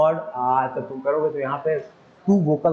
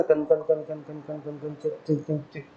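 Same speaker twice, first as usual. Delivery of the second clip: imitated strumming; 6 dB quieter than usual. Shown as a demonstration. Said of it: "ऐसे करके बजाते हो ना".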